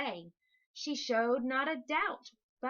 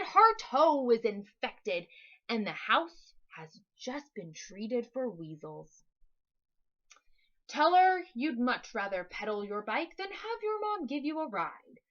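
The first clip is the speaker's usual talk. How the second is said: booming Big Fat Lie; 4 dB louder than usual. Acted. Monster introducing itself to Max, booming. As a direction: boast the name like a giant.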